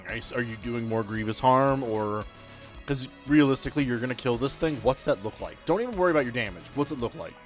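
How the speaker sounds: usual speaking voice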